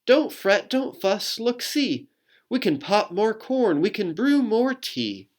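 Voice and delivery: high little mouse voice; squeaky mouse. Acted. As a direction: squeak it like a tiny helpful mouse. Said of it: "Mouse squeaks".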